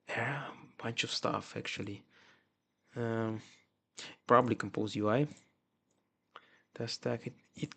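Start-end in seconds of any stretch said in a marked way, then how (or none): 0.1-3.4 whispering. Real, not acted. Muttering while reading code. 6.7-7.7 whispering. Real, not acted. Muttering while reading code.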